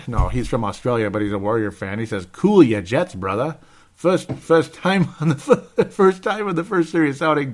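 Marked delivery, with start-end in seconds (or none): 2.3-7.5 higher, amused mock-Australian voice; hammed-up Aussie fan impression; bad Aussie accent. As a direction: put on a bad Australian accent, laughing partway. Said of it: "very bad Aus-, Aussie accent".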